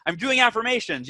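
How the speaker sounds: mock snap. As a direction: snap it back half-jokingly. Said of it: "You're like".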